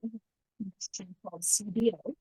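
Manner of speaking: muffled, as if through a hand. Real, not acted. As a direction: talk from behind a hand over the mouth. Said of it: "uh, muffled out a little bit".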